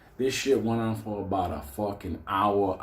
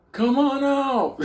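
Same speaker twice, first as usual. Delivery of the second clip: high, slow, loud laughing shout; hammed-up come-out call; mock shout; 5 dB louder, slower than usual. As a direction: yell it out like a cop, laughing.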